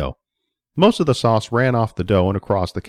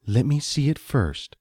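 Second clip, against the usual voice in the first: put-on stern old woman; 2 semitones higher, 3 dB quieter than usual. Stern grandmother voice.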